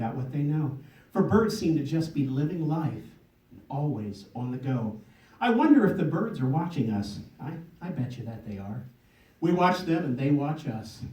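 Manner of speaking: measured spoken poem with pauses; poem recitation. Acted. Poet to audience about watching birds, recited poem. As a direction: open lines firmly, let endings fall.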